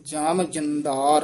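slow ਜਮ ਜੰਦਾਰ, rising, then a brief catch; slow ਜਮ ਜੰਦਾਰ and hold a beat; ਜਮ ਜੰਦਾਰ with a small pause; short pause after. Shown as a demonstration. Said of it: "ਇੱਥੇ ਯਮਕ ਲਾ ਦੇਣੀ ਹੈ".

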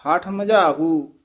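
slow ਹਠ with a light, single th; soft pronunciation. Shown as a demonstration. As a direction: draw out ਹਠ ਮਜਾਹੂ, th left loose. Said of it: "ਪੋਲਾ ਹੀ ਬੋਲਣਾ ਹੈ".

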